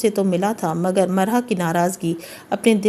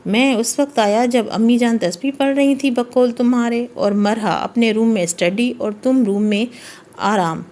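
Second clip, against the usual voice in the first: a pointed weight on آرام; mild sarcastic stress on آرام; stress on last word; 2 semitones higher than usual. A narrator's reading. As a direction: lean on آرام at the end. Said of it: "آخری لفظ پر زور دیتے ہوئے بولا".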